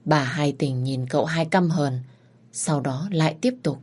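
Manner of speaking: usual speaking voice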